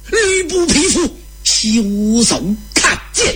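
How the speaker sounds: high, furious challenge; acted warrior's high-pitched threat; attacking war cry. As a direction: cry out as you charge in sword first. Zhang Fei charges with sword drawn.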